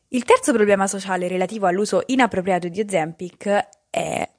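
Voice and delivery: hoarse voice cracking and fading; voice giving out. Real, not acted. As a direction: voice failing, almost gone. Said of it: "non ho voce questa mattina".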